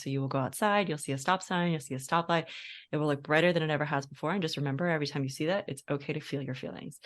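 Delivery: a hint of a calm, soft hypnotist; lightly voiced soothing hypnosis suggestion; hypnotherapist voice. Quotes hypnotherapist's closing suggestion.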